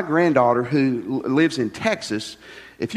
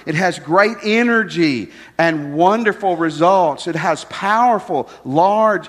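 emphatic preaching; 3 dB louder, slower than usual. Acted.

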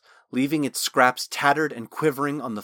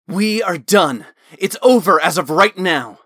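furious shout; 7 semitones higher, 10 dB louder than usual. Acted. Talon breaking with the voice in his head, shouting. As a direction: slam the door on it for good.

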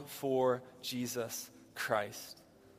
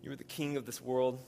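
measured prayer with long reverent pauses. Real, not acted. Pastor leads the congregation in prayer to the King, reverently. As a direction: pray it unhurriedly, phrase by phrase.

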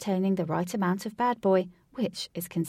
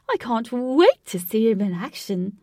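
growled through teeth; 3 semitones higher, 7 dB louder than usual. Acted. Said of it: "she growled through her teeth".

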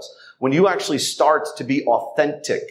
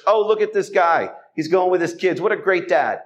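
lightly voiced admiring churchgoer, a little higher; mock admiring onlooker; 5 semitones higher than usual. Onlookers at church praising the dad, a mock admiring gush.

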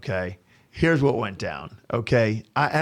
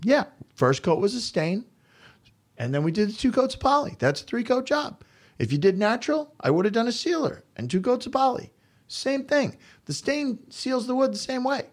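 much higher, insistent explaining; high-pitched retold protest; 12 semitones higher than usual. Contractor defends his three-coat job to homeowner, high-pitched protest. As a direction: argue it point by point, pitched way up.

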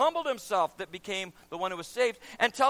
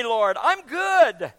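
slow, loud smug boast; 7 dB louder, much slower than usual. Acted. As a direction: stretch it out proudly. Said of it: "a proud Pharisee who was standing there praying".

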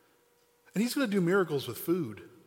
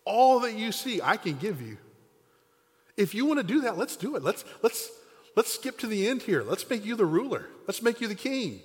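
a lightly voiced tempting devil, higher and louder; hint of a grand, eager devil; 7 semitones higher, 4 dB louder than usual. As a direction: sell it like a smooth devil offering the world.

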